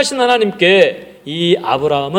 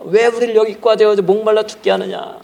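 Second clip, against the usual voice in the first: grumbling complaint; 6 semitones higher, 3 dB louder than usual. Acted. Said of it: "막 모세에게 막 욕을 합니다".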